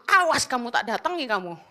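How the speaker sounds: low, quiet muttered threat; inner threat. Retold or imitated. Preacher's silent threat to the abuser, muttered low. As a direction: say it under your breath like a private vow. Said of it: "Dalam hatiku".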